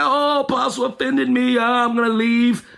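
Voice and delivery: mocking wounded whine; offended follower. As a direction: imitate a hurt church member. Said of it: "if you're gonna be on that".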